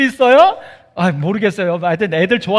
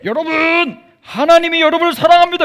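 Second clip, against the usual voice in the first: higher, fast proclaiming voice; preaching Jonah; 8 semitones higher, 5 dB louder, faster than usual. Acted. Jonah preaching to the city, mock proclamation. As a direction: announce it like a preacher. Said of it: "성에 가서 사람들한테".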